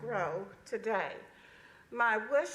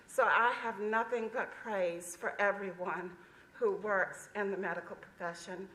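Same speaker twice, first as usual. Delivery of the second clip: muffled, speaking through a mask; words dulled by a face mask. Real, not acted. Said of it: "It's hard to speak through this mask".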